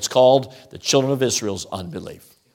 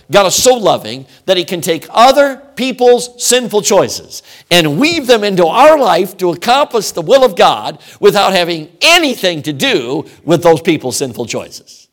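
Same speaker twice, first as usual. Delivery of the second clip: "loving" and "other" pushed higher and louder, rising to a peak; full-force preaching; 4 semitones higher, 7 dB louder than usual. Shown as a demonstration. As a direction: preach it out loud and high. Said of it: "repeated refrain, second take calmer".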